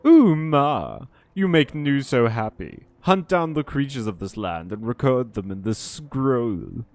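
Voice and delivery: happy Nu voice. Acted. Nu reacts happily.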